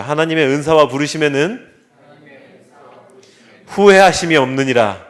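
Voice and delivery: loud, measured verse for all to repeat; leading a recital. Shown as a demonstration. Pastor leads congregation in reciting, loud. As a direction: read the verse out for the room to echo. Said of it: "저를 따라해 주시죠".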